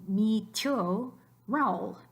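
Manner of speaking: mi tío Raúl with tío squeezed into one syllable; wrong diphthong. Shown as a demonstration. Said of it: "If there weren't".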